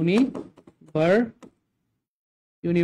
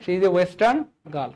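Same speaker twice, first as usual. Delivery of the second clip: slow model sentence; much slower than usual. Shown as a demonstration.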